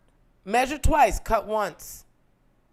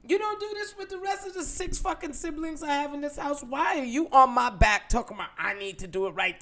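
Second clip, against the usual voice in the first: resentful inner rant; 3 semitones higher, 4 dB louder than usual. Retold or imitated. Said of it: "I just thought".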